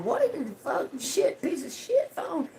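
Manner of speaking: high, breathless retold rant; exasperated rant. Vlogger retells cursing at her useless spare phone, high mock rant. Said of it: "I was going".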